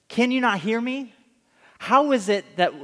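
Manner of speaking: a touch of mock exasperation, NOT leaned on; wife who has called for dinner, put out; exasperated demand. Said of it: "She's saying".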